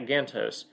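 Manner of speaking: Gantos with a flat A, as in "can't"; GAN-tohs, short front A in Gantos; first pronunciation. Shown as a demonstration. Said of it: "learn how to pronounce his name".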